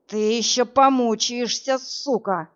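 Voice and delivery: usual speaking voice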